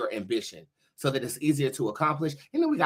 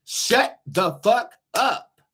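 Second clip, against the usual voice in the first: slow, loud, higher drawn-out snap; mock command; 8 semitones higher, 5 dB louder, much slower than usual. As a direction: stretch it out like a dramatic order.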